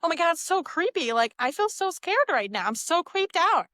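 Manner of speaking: creeped-out mock reaction. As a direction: play the girl who's freaked out by the message. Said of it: "Now, what are you gonna say?".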